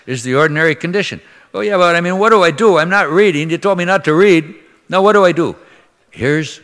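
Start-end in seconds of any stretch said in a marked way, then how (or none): 1.5-5.6 pleading parishioner. Retold or imitated. Imagined anxious parishioner pleading.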